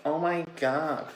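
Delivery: drawn-out high oh my god; slow gushing gasp. Retold or imitated. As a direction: swoon over it slowly.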